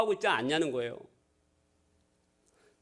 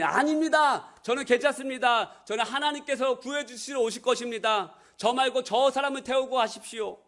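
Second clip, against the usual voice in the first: stubborn refusal; 4 semitones higher than usual. Acted. Man refuses helicopter.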